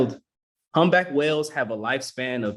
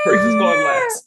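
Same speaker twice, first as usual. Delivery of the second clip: laughing; 6 dB louder than usual. Real, not acted. Ruling while laughing.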